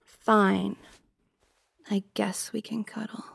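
soft, half-whispered concession; grudging surrender. Acted. Girlfriend agrees to cuddle with partner, grudging and soft. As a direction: give in quietly and reluctantly.

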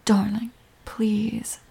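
slow, breathy plea; hushed, drawn-out entreaty; gentle pleading. Acted. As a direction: plead softly with your partner. Pleading with upset partner.

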